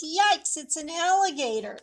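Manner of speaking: a quick startled yelp; owl yelp. Acted. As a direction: owl yelping at the alligator. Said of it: "this owl says".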